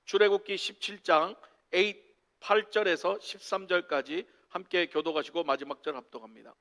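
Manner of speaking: normal talking voice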